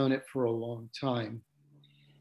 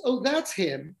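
surprised recognition; 7 semitones higher than usual. Retold or imitated. Woman recognizes guru's picture.

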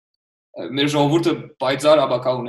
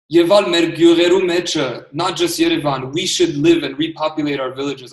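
imitating a lecturing commenter from abroad with a raised voice; mocking commenter; 3 semitones higher, 5 dB louder than usual. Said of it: "someone's like".

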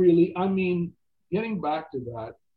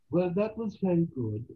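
higher-pitched imitation of a Dutch director; bad Dutch accent; 4 semitones higher than usual. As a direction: put on a rough Dutch-ish accent. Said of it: "Pardon my bad accent".

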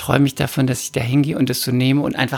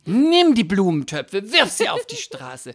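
higher, slowed, laughing dramatic egging-on; hot-blooded urging; 9 semitones higher than usual. Retold or imitated. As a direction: egg yourself on to smash things, laughing. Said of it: "mein lateinamerikanisches Blut in mir".

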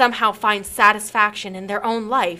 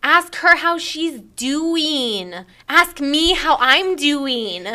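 slow reading; 3 semitones higher, much slower than usual. Acted. Reading a poem line slowly.

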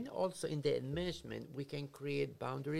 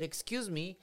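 mock scolding; 5 semitones higher than usual. Frustrated parent scolding.

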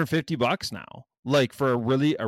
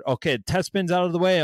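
a bit higher, mock host patter; mock raffle host; 5 semitones higher than usual. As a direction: lightly imitate a streamer running a raffle. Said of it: "some they didn't even do a test spin".

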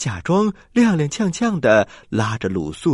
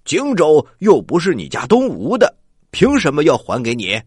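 loud; 2 semitones higher, 4 dB louder than usual. Acted. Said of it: "周仓大声地说".

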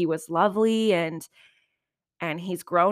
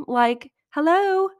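drawn-out, much higher and louder sassy "hello?"; 10 semitones higher, 7 dB louder, slower than usual. Real, not acted. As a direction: stretch it out like it's painfully obvious. Sassy aside about obvious flattery.

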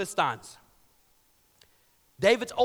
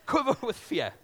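hammed-up movie quote, laughing into it; jokingly quoting The Lion King; mock Lion King line; 4 semitones higher than usual. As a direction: throw in a playful Lion King nod. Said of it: "That was just for fun".

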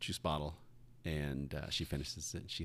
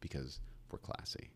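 prim whisper; 6 semitones lower, 12 dB quieter than usual. Retold or imitated. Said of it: "I said".

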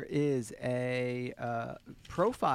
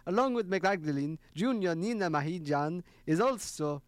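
a light mock Italian accent; 3 semitones higher than usual. Host reading the next part on request, in a light Italian accent. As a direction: read the paragraph with a hammed-up Italian lilt. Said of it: "Italian for the next part".

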